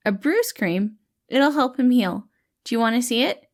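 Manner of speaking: put-on a kind healer soothing a scared kid; kind caretaker voice. Patton voice.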